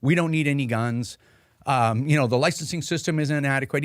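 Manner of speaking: lampoon a smug official grabbing the mic; a hammed-up pompous minister cutting everyone off; mocking politician. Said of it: "It's like".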